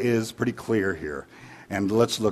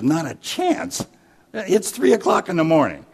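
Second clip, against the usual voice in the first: higher-pitched indignant husband; indignant refusal; 7 semitones higher than usual. Acted. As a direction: turn them away, indignant and raised. Husband refuses stranger at night.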